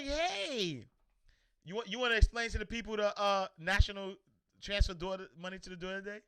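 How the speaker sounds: squeaky kid voice playing announcer; teasing imitation of a shy daughter; mock daughter voice. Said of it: "She don't like the camera".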